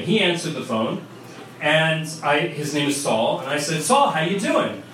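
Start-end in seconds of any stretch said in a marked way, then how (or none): 3.8-4.8 put-on New York accent. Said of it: "my New York accent immediately comes back".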